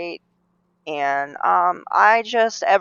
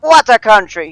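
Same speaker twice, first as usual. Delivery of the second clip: put-on loud, higher-pitched comic Russian accent; Yakov Smirnov; 4 semitones higher, 10 dB louder than usual. Quoting a stand-up's catchphrase in a Russian accent. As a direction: exclaim it with a mock Russian accent. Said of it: "he would say".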